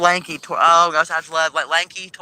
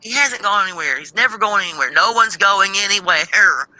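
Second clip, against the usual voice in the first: exasperated retort; 4 semitones higher than usual. Retold or imitated. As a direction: hammer it home, slowing on the last line. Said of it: "I'm like".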